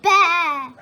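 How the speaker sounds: loud bleating baa; sheep baa. Acted. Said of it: "said the sheep".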